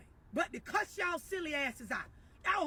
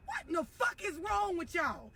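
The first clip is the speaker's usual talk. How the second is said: exasperated cussing; 3 semitones higher than usual. Real, not acted. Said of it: "this is the part where I'm gonna cuss".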